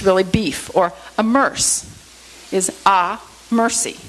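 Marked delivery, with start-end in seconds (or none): 1.2-1.8 "a merce" slowly, ending on an S sound; amerce. Shown as a demonstration. Teacher offering a word to re-pronounce, slow amerce. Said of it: "try different pronunciations of words". 2.9-4.0 "a mercy" slowly, with a pause after "a"; amerce as mercy. Shown as a demonstration. Teacher showing a different pronunciation, amerce as mercy. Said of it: "try different pronunciations of words".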